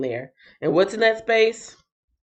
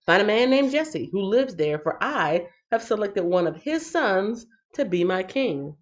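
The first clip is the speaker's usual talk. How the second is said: scripture reading; 4 semitones higher than usual. Acted. Rereading God's words aloud.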